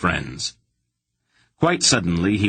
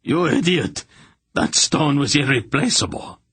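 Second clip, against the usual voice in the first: shrill high outraged yell, much higher; furious shout; 8 semitones higher than usual. A narrator's reading. Hierarch screaming at Garion over the lost stone, furious yell. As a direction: scream it at the fool who broke it.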